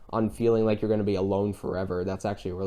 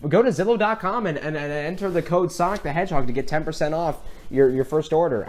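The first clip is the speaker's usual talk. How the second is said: mock ad read; 4 semitones higher than usual. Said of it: "the way she said it, it says".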